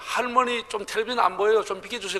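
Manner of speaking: 할머니 좀 텔레비전 안 보여요 said politely, long and even; polite Seoul request. Retold or imitated. Seoul grandchild asking grandma to move, polite. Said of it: "서울 사람들 그래야 됩니다".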